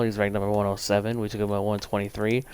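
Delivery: rapid-fire stat rattle; talking really fast. Real, not acted. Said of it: "I'm talking really fast".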